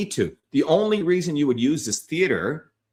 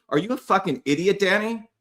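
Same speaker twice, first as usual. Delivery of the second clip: higher, exasperated insult at Danny; angry outburst; 6 semitones higher than usual. Real, not acted. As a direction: let the frustration spill over at him. Berating a commenter by name.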